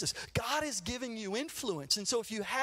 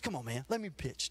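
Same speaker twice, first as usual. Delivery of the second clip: begging; 6 semitones lower, 5 dB quieter than usual. Retold or imitated. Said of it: "I'd beg my coach".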